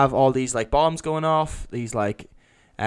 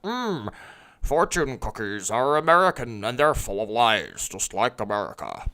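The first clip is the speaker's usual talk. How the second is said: slow, menacing villain drawl dropping low; lightly voiced sinister terrorist; Mandarin impression; 3 semitones lower than usual. Retelling the Mandarin's speech to friends, a light menacing imitation. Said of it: "That's how he talks".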